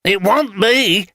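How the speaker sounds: sudden high alarmed cry, rising and slowing; alarmed outburst. Acted. Vagrant alarmed by talk of murder, high frightened cry. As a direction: jump up in startled alarm. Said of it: "A look of alarm came onto Tanner's face".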